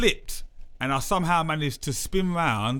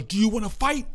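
higher, slightly halting broken English; mock Eastern European accent; 7 semitones higher than usual. Imitating the Eastern European guy, in an Eastern European accent. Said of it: "He goes".

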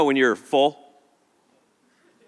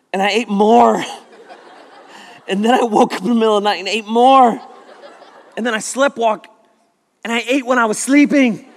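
laughing through a louder, higher confession; 6 semitones higher, 4 dB louder than usual. Real, not acted. Confessing to the youth group about the cake, laughing. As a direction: giggle as you admit every bite.

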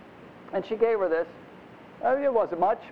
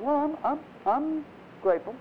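much higher, reluctant "grateful"; grudging thanks; 10 semitones higher than usual. Retold or imitated. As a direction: say "grateful" like you don't mean it.

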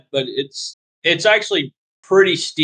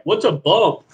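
high, dopey clueless voice; clueless newbie voice; 6 semitones higher, slower than usual. Retold or imitated. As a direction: play the clueless beginner. Mocking clueless drivers.

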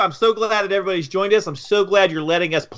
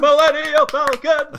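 excited shout; 10 semitones higher, 4 dB louder, slower than usual. Acted. Hype shout for intern.

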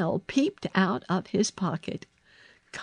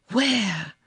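higher-pitched, eager question; mildly excited storybook cry; 6 semitones higher than usual. A narrator's reading. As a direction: ask it with keen excitement. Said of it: "Colin cried".

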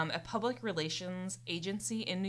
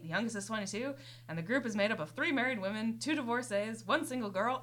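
forties news anchor voice; 3 semitones higher, 3 dB louder than usual. Acted. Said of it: "forties news anchor voice or whatever".

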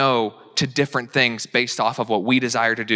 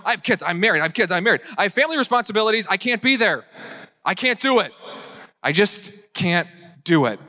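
rattled off fast and high, piling up excuses; hammed-up overwhelmed parent; a frazzled parent begging off the invite, hammed up; mock frantic excuse; 5 semitones higher than usual.

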